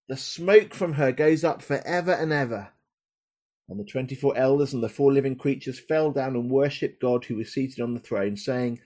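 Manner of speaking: solemn, measured reading from Revelation; preacher reading Revelation aloud with feeling; dramatic scripture reading. Acted. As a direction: read it like the prophecy it is, weighty and rhythmic.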